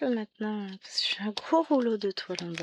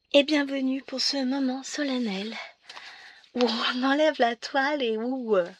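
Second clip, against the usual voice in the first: ordinary talk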